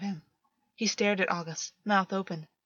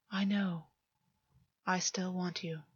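unvoiced whisper, intimate; 6 dB quieter, slower than usual. A narrator's reading. August confessing desire to Gwen in a whisper. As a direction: breathe it to him, barely voiced. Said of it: "August whispered".

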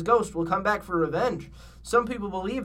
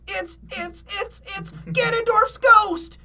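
high stammer building to a loud, drawn-out scream; 5 dB louder, slower than usual. A narrator's reading. Shaggy sees the creature at the window, stammering scream. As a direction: stutter in fright, then shriek the name. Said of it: "screamed Shaggy".

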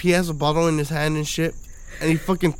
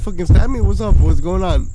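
louder, challenging taunt; challenging shout; 7 dB louder than usual. Retold or imitated. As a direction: call him out, voice raised. Retold confrontation with Richard.

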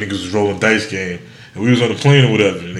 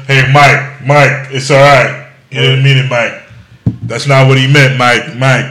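imitating Pippen soothing; 5 dB louder than usual. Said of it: "Scottie Pippen got".

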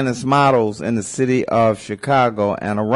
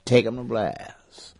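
granny voice; 3 semitones higher, slower than usual. Retold or imitated. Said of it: "Granny told me to say".

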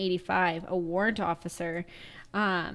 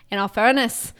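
imitated Irish accent, a bit louder; 5 dB louder than usual. Retelling what the Irish guy kept saying, Irish accent. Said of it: "without doing an Irish accent".

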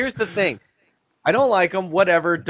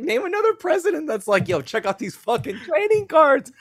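hyped voice; 12 semitones higher, 3 dB louder than usual. Retold or imitated. Voicing Trump's brag about cards.

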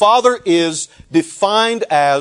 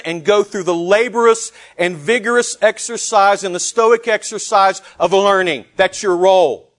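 sarcastic; 4 semitones higher than usual. Acted. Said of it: "I say that with a large hint of sarcasm".

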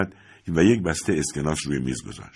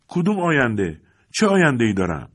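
bitter retort; 4 semitones higher than usual. Acted. Son rejects father's comfort.

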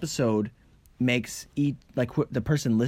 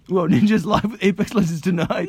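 excited; 4 semitones higher, 3 dB louder than usual. Real, not acted. Excited news announcement.

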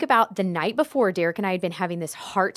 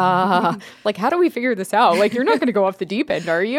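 worried husband; 7 dB louder, faster than usual. Retold or imitated. Husband's worried quote retold.

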